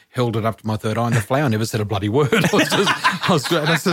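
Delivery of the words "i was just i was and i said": laughing, much higher. Real, not acted. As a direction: giggle through the words. Laugh heard while telling.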